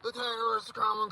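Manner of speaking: panicked outcry at full volume; alarmed shout. Real, not acted. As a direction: shout it to everyone. Alarmed outcry about terrorists.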